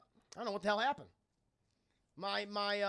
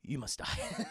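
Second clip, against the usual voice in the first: Wesker; 5 semitones higher than usual. Acted. Villain silences man leaking company secrets, mock menace. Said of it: "Blame Wesker. He's like".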